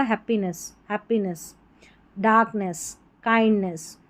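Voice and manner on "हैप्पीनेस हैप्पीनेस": हैप्पीनेस ending in "ness", said softly; model pronunciation. Shown as a demonstration. Teacher showing the sound whatever the Hindi spelling, हैप्पीनेस ending "ness". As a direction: say हैप्पीनेस softly with an "e" in the last syllable. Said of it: "उच्चारण ऐसे होगा".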